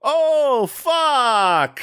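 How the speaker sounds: high, mock-startled "Oh, fuck!"; playful impression of a startled swear; imitating shocked curse. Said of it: "she just goes".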